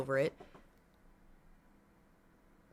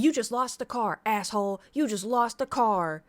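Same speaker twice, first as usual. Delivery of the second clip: mock angry yell; 3 semitones higher, 4 dB louder than usual. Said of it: "she goes".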